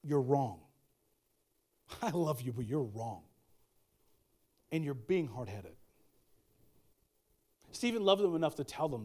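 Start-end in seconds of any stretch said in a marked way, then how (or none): 0.0-5.8 low, soft, loving rebuke; gentle but firm, voice dropped low. Acted. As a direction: quietly tell a loved one a hard truth. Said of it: "look them dead in the eye and go".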